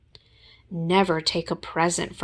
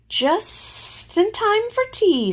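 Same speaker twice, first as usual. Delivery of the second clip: Gopher voice; 14 semitones higher, slower than usual. Acted. Gopher voice, high whistly.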